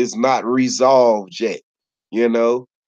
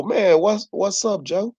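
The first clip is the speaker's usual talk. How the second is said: friendly greeting; 6 semitones higher than usual. Retold or imitated. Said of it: "So if they be like".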